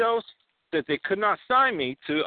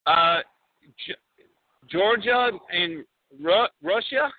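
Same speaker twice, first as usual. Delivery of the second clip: put-on flustered Borat, Kazakh accent. Borat bluffs about Georgia to the host, Kazakh accent.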